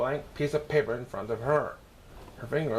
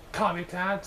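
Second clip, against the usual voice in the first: sneer; 6 semitones higher than usual. Acted. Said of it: "said Natalie with a sneer".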